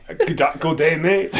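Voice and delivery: a hint of a cartoon Australian accent on "Good day, mate"; mock Australian. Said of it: "This is an Australian".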